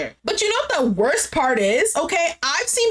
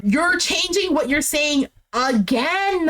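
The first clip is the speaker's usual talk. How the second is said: exasperated accusation; 3 semitones higher, slower than usual. Retold or imitated. Acted fed-up accusation in quarrel.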